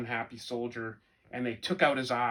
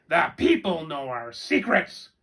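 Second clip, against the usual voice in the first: raven voice; 3 semitones higher, 7 dB louder than usual. Acted. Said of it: "yelled a raven".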